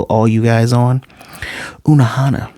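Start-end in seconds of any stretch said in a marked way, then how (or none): 1.8-2.5 fully whispered name reveal; dramatic whisper. Shown as a demonstration. YouTuber reveals a spoiler name to viewers, dramatic whisper. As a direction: whisper it like a big secret.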